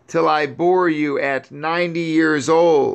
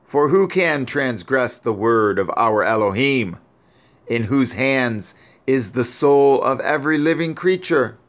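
higher mournful voice, grief turning to praise; weeping lament; 3 semitones higher than usual. Acted. Grieving Sarah praising Yahuwah over her son, higher lament. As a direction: cry out to heaven in sorrow, held high. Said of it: "And she still continued to weep".

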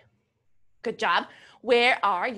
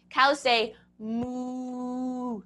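cow moo; 3 semitones lower, much slower than usual. Shown as a demonstration. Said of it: "Can you try that, Lily?".

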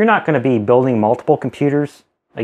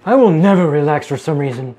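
playful echo; 2 semitones higher than usual. Retold or imitated. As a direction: parrot the child's line back. Echoes child's words playfully.

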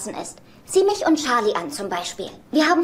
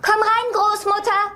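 calling in; 9 semitones higher, slower than usual. Acted. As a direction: summon her in triumphantly. Calls grandmother into the room.

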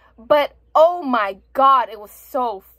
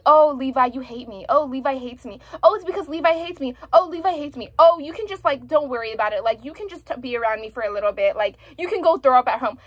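mocking the heroine. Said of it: "Why is she saying".

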